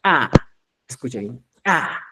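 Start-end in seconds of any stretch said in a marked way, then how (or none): 0.0-0.3 A begun with a popped, explosive ch; reinforced consonant. Shown as a demonstration. Teacher showing the last sound, reinforced A. 1.6-2.0 A begun with a popped, explosive ch; reinforced consonant. Shown as a demonstration. Teacher asks to listen well, reinforced A.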